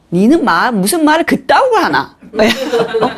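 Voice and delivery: high-pitched, scolding Gangneung dialect; 강릉 사투리. Acted. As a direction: tell off a husband in Gangneung dialect. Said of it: "강릉 사투리를 한번 해볼게요". (강릉 사투리로 높게 따지는 말투)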